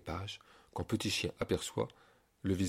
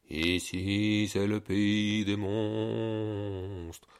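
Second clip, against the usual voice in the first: very slow, looming monster announcement; slow spooky monster voice; much slower than usual. Acted. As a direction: drag it out like a menacing beast.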